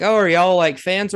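light high retold question; lightly acted friendly surprise; mock surprised question. Retold chat with fans.

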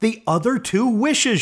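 high quick answer; rapid reply. A narrator's reading. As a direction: rush it out eagerly. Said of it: "she replied rapidly".

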